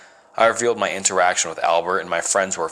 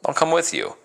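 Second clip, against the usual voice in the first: much higher, eager and bright; keen to tag along; excited, high voice; 10 semitones higher than usual. A narrator's reading. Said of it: "Jane excitedly squealed".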